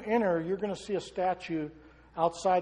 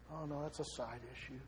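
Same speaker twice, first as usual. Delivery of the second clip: much softer, lower mock objection; dismissive aside; 4 semitones lower, 14 dB quieter than usual. Preacher voicing an objector on the unborn, quietly dismissive. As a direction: toss it off quietly as someone brushing it aside.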